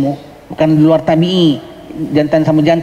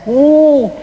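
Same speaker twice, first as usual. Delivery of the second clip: high startled oh; a sudden taken-aback oh; surprised gasp of oh; 12 semitones higher, 3 dB louder than usual. Retold or imitated. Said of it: "terperanjat orang Singapura dengar".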